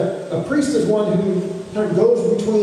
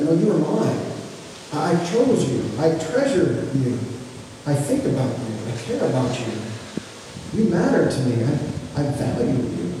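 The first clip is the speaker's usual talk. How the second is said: tender voice of God; 3 semitones lower, 4 dB quieter than usual. Retold or imitated. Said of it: "And he's like".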